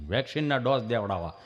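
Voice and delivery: low, halting stammerer's voice; imitated tongue-tied friend; stammering friend. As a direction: stall on a hum, then push the words out. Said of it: "જીભ જલાઈ સોટે અટકે".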